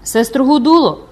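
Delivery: loud, high, drawn-out call. Acted. Second woman repeating the call into the cell, calling out. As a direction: stretch the name out, calling anxiously. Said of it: "повторила й Ударда".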